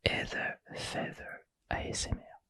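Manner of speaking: whispered English name in a French accent; French speaker's doubtful English accent, whispered; dubious English accent. Shown as a demonstration. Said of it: "avec mon anglais douteux".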